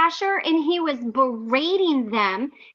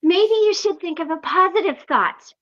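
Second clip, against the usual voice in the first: mock sweet advice; 2 semitones higher than usual. Shown as a demonstration. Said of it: "You gotta get the full effect".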